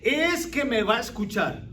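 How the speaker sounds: loud, slow mock threat; vengeful grumble. Preacher mocking a churchgoer who plans revenge, loud and slow.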